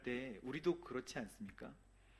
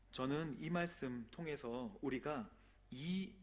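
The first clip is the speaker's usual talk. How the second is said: ordinary talk, nothing marked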